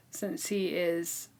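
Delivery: whispered through a giggle, like letting out a secret; laughing whisper. Real, not acted. Telling her co-host the funny disguise part in a laughing whisper. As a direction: drop to a breathy, amused whisper.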